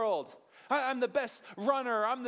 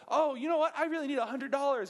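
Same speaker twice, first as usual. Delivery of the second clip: mock whiny asker; 5 semitones higher, faster than usual. Mock greedy prayer voice.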